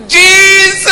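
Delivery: high, loud, long cry; desperate-style shout. Retold or imitated. Passenger facing death cries to God, long yell. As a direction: scream the name out and hold it. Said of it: "Yang ketiga saya teriak begini".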